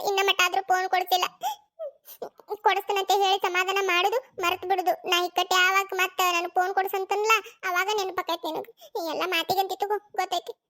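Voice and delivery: hurt, disbelieving whimper; tearful grumble. Acted. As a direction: sulk through tears, losing volume towards the end. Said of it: "ಇನ್ನ ಅಳಾಕತ್ತಾಳ".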